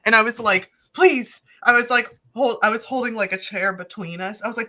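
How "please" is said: retold plea.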